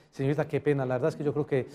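soft, subdued acted apology; a sheepish customer, lightly voiced; apologetic customer. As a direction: play a calmed-down client saying sorry. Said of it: "Pidiendo disculpas".

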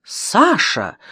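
mildly bewildered call of a name; a touch of startled confusion; puzzled exclamation. A narrator's reading. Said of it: "озадаченно воскликнула Мария Александровна".

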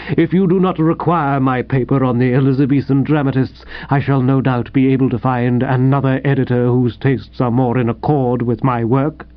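stiffly formal, even delivery. Acted. Snubbed writer withdraws his paper from the editor, stiffly. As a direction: keep it proper and coolly dignified. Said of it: "he said stiffly".

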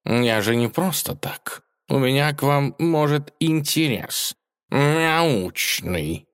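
cat explaining his scientific interest to the mouse; grumbling cat. A narrator's reading. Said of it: "проворчал".

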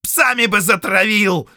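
loud, high bark. Acted. Count barking at the prisoner, loud and high. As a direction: spit the refusal out. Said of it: "рыкнул граф Фредерик".

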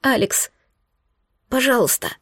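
begging him through tears; sobbing plea. Acted. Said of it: "Зарыдала я у него на груди". (рыдая, умоляюще)

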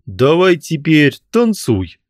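high, loud, slow order; rough ghoulish demand. A narrator's reading. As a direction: order him to dance. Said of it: "потребовал мужик".

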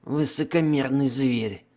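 hoarse wheeze from a wounded chest; wheezing. Acted. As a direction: rasp it out, badly wounded. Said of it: "прохрипел человек из раненой груди".

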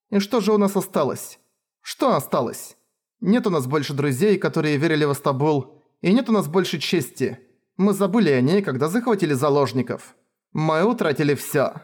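high, anguished complaint; anguished lament. Acted. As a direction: pour out the grief. Princess lamenting loss.

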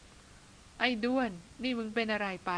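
slow, drawn-out mock bark; barking at the elephant. A narrator's reading. Old hunter snaps at the rogue elephant, mild mock bark. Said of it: "นานอินตวาด".

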